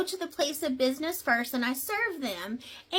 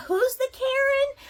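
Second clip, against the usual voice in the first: high, louder sassy retort; indignant comeback; 12 semitones higher, 5 dB louder than usual. Retold or imitated. Server hitting back at the woman, high and loud. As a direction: snap it back with mock outrage.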